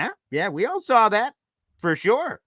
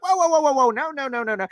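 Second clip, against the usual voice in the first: alarmed whoa; 9 semitones higher than usual. Retold or imitated. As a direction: stop them in alarm, then calm down. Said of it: "I'm like".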